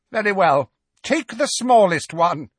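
high, loud commanding witch; Bellatrix ordering. A narrator's reading. Bellatrix ordering Death Eaters, loud high commanding witch. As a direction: bark the order at her followers. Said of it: "she ordered the Death Eaters".

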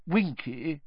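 kindly. A narrator's reading. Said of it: "he said kindly".

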